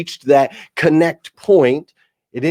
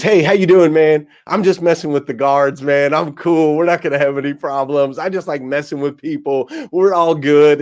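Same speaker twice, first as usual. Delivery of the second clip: lightly voiced easygoing buddy, a bit raised; imitated friendly inmate; 3 dB louder than usual. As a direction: reassure him like it was all a joke. Inmate turns out friendly, retold greeting.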